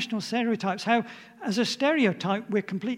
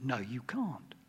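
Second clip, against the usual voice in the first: voice of God; 9 semitones lower, 10 dB quieter, slower than usual. Retold or imitated. Preacher voicing God to the Babel builders, low and soft. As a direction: lower and softer, a quiet firm refusal. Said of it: "God said".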